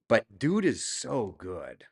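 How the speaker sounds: slow, lightly done bad Brooklyn Italian accent. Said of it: "What kind of bad Brooklyn Italian accent was that".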